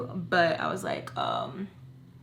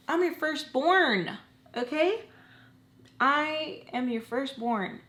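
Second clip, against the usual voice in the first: indignant; 5 semitones higher, slower than usual. Real, not acted. Indignant at being treated as stepkid.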